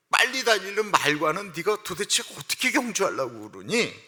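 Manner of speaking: God rebuking. Retold or imitated. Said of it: "하나님이 이렇게 말씀하시는 겁니다".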